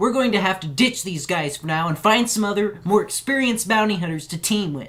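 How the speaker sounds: high, squeaky helium voice, pushed into a squeak. Playing Raph, speaking to the group; high helium Raph voice. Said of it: "It's an adorable voice".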